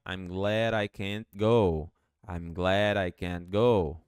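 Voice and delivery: I'm glad I can't go, glad I linked, can't short; whole sentence with contraction; contracted model. Shown as a demonstration. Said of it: "Juntando tudo fica".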